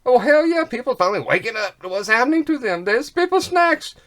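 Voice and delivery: loud and high, thrilled at last; retold eager hell yeah; excited. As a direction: cheer like it finally happened. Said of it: "I thought".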